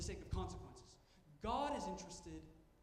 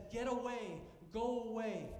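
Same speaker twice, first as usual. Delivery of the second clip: higher and louder, pushing away; harsh dismissal; 5 semitones higher, 5 dB louder than usual. Retold or imitated. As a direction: shove the listener off with the words. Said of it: "He says".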